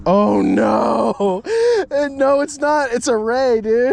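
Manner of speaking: high, loud startled laughing talk; excited. Real, not acted. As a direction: react to the surprise catch. Discovers stingray on line.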